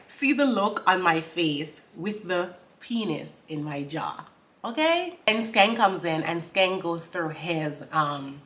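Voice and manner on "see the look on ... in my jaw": slow spoken lyric. Shown as a demonstration. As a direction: slowly read lyric. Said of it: "she's like".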